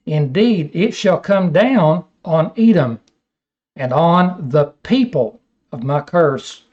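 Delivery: measured, solemn Bible reading; scripture reading. Acted. Preacher reading Isaiah to his class, solemn reading. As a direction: read the prophecy with weight.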